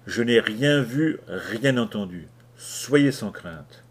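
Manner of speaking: slow, steady reassurance; calm them, unhurried; very calmly. Acted. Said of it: "dis très calmement".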